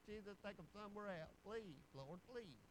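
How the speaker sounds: soft, acted plea to Jesus; mock pleading prayer. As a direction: beg under your voice, playing the embarrassed believer. Acts out an embarrassed believer praying.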